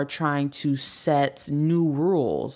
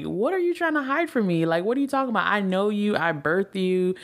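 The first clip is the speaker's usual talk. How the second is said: lightly voiced indignant parent, pitched higher; mock offended parent; 6 semitones higher than usual. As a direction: play the hurt parent who can't believe it. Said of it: "The parent respond may be like".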